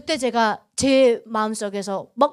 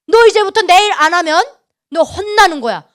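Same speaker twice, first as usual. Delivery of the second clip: loud, raised warning; stern threat; 5 semitones higher, 10 dB louder than usual. Retold or imitated. God warning Yuna to do His work, loud stern threat. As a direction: lay down a forceful ultimatum.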